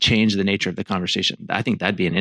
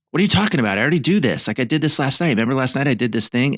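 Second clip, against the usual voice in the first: indignant, a bit higher, mock defensive; defensive retort; 4 semitones higher than usual. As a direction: play the husband brushing her off. Husband defending himself, acted quarrel.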